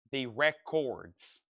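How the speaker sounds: Records said slowly with a clear "or"; own pronunciation. Shown as a demonstration. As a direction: carefully say "The Records" as RE-cords with a full "or" sound. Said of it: "pronunciation ... not picking up my accent".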